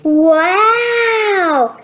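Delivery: surprised wow. Acted. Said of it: "Sammy seven is always surprised".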